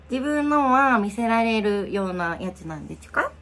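put-on baby talk.

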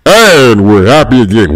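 drawn-out mock-happy announcement; slow, playfully upbeat declaration; put-on cheerfulness. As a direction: stretch it out, switching the mood back to happy. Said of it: "make it all happy again".

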